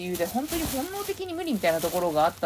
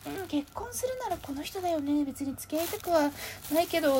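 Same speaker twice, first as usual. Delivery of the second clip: mock matter-of-fact; 10 semitones higher than usual. Imagined friend's comment about marriage.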